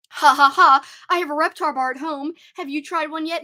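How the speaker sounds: loud gloating ha ha, then teasing; mock taunt. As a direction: rub it in like a smug friend. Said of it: "he would taunt me".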